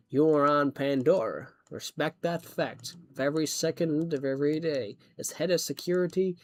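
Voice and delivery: stern military briefing voice; commanding security chief. Acted. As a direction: lay down the rules to new arrivals. Recites a film commander's speech.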